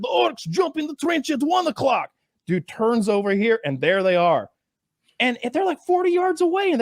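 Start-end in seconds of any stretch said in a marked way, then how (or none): 0.0-2.1 radio voice. Retold or imitated. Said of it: "somebody's like".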